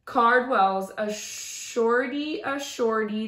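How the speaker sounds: slow, drawn-out playground taunt; mildly mock the giraffe, stretching the words; teasing. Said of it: "they teased".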